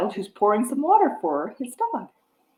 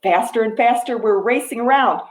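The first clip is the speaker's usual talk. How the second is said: rhythmic picture-book reading; reading to a toddler; 4 dB louder than usual. Acted. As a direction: read the rhyme to little ones. Reads picture book rhyme.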